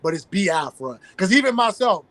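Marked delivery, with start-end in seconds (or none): 0.2-1.0 "Biafra" with the E sound, bee-AF-ra; correct pronunciation. Shown as a demonstration. Guest correcting listeners, "Biafra" as bee-AF-ra. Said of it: "when it comes to the I, E sounds".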